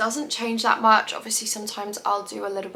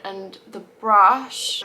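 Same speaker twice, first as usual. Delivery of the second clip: slow, distracted while doing mascara; talking while applying mascara; 7 dB louder, much slower than usual. Real, not acted. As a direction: mouth stretched for mascara. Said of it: "I can't talk and do my mascara".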